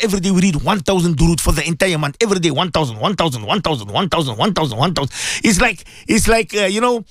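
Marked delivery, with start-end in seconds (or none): 0.0-5.1 low, rapid repeated chant; insistent low patter; urging the family. Acted. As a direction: rattle off the number low and on repeat. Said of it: "and tell them, say".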